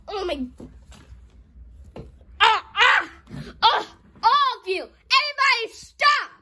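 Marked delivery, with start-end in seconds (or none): 2.4-6.3 exasperated shout. Real, not acted. Parent scolding the whole game family, loud exasperated shout. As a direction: bellow over the chaos to stop it.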